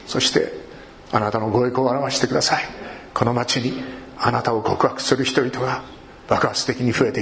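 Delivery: calm, even prayer voice; a pastor praying aloud over the church; spoken prayer. Acted. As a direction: pray for the congregation, steady and humble. Leads the closing prayer.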